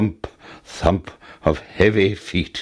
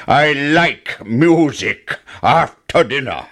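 giant voice; 4 semitones higher, 3 dB louder, slower than usual. Acted. Giant speaks in story.

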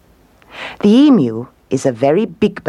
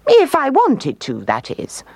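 vain emu; 11 semitones higher than usual. A narrator's reading. Emu covering herself before the owl, coy. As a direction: hedge it as a proud bird.

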